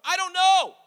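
high, loud, sulky "I don't know"; playfully sulky husband voice; childish whine. Retold or imitated. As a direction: whine it like a sulking kid. Pastor voices himself grumpy.

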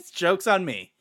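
laughing it off; laughing repeat. Real, not acted. Fan laughing at his dashed hopes, chuckling. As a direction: chuckle through the words.

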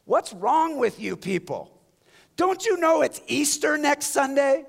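loud, high rallying cry; calling out to shoppers. Retold or imitated. Victor in the dollar store shouting at mopey shoppers, loud rallying cry. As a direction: rouse the mopey shoppers with a loud, ringing call. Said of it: "lift his head and say this".

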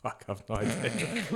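ordinary talk, nothing marked

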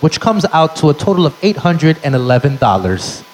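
smug official listing fees; a clerk reading the bill; lightly voiced bureaucrat. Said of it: "the gentleman says".

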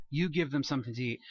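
gentle Jesus inviting the disciples in; gentle invitation. Shown as a demonstration. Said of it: "I doubt Jesus was snarky".

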